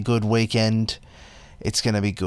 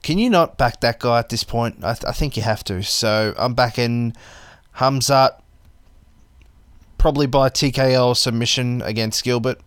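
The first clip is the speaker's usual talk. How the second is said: chewing tobacco. Real, not acted. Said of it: "Sorry, I got a chew in my mouth".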